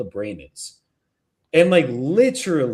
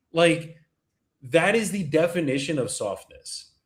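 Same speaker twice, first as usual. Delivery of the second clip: ordinary delivery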